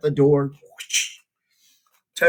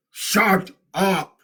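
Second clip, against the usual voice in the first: mock scream; 6 semitones higher than usual. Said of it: "screamed Toad".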